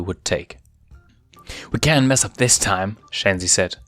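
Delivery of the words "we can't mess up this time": urgent. Acted. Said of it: "urgency evident in her voice".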